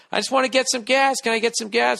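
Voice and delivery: high, sweet, innocent plea for gas; mock-innocent request to the cop; polite ask for gas. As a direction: ask nicely, playing dumb. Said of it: "I'm just like".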